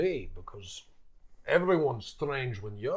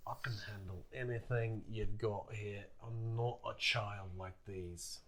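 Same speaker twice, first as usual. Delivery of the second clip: leaning in, low; 3 semitones lower, 13 dB quieter than usual. Acted. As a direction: lean in and tell him quietly.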